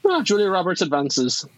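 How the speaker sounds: put-on Irish accent. Host announcing a bracket winner, playful Irish accent. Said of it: "I find your ... Irish ... accent".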